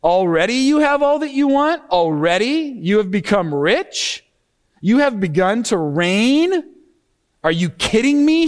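mock their claims with open disbelief; sarcastic. Shown as a demonstration. Paul taunting the boastful Corinthians, biting sarcasm. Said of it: "You have to hear the sarcasm".

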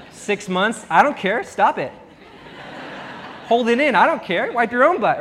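comic tough-love scolding; mock stern parent. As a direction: play the no-nonsense potty-training dad for laughs. Mock stern parent potty training baby.

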